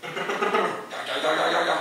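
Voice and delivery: loud "Ga, ga" herding call; loud shepherd calling the flock; shepherd's call. Retold or imitated. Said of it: "It's like".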